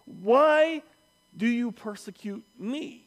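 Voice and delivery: loud, high call, pausing between words; booming divine summons, easing at the end; voice from heaven. Acted. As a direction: call out the name commandingly, then question. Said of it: "and a voice says".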